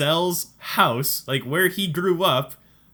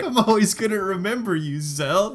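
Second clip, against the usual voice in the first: mock crying mom; 4 semitones higher than usual. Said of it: "like, crying".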